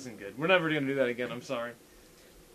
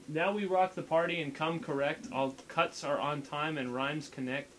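deadpan. Shown as a demonstration. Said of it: "like, dead-, deadpan voice".

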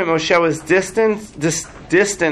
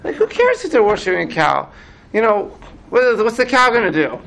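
high-pitched mock disbelief; incredulous Moses; 5 semitones higher than usual. Moses asks God why so upset, incredulous. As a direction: shrug it off in a raised voice. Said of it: "what does the Midrash make Moses say".

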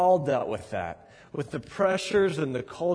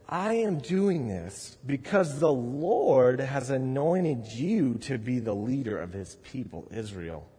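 solemn prophet; 4 semitones lower than usual. Retold or imitated. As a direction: pronounce the anointing gravely. Preacher voices Samuel anointing Saul.

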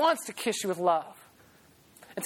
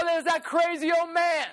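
higher, lightly mocking jeer; mock ridicule; 6 semitones higher than usual. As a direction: sneer at the old man a little. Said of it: "They'd be like".

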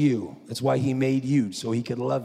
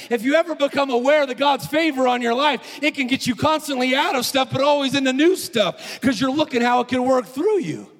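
high, loud, driving sermon voice; full-force preaching; 12 semitones higher, 7 dB louder than usual. Acted. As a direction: preach it hard to the room.

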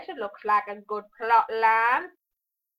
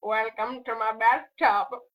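Bubbles voice; 3 semitones lower than usual. Acted. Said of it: "I've turned into Bubbles".

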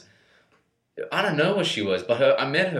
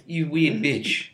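mock whiny high voice; 7 semitones higher, slower than usual. Mock ex's high whine.

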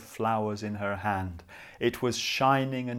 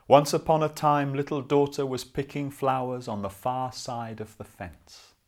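bright storytelling restart; 4 dB louder than usual. Shown as a demonstration. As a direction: start the tale again with lift.

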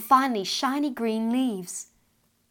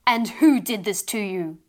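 angry; 5 dB louder than usual. Acted. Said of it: "this time angrily".

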